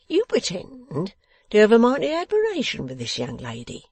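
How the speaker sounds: high, loud jeer at a pretender; scornful accusation. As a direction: accuse him with heavy scorn. Boffin accuses the secretary.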